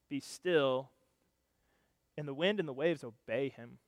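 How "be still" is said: calm command. Acted. Jesus calms the storm.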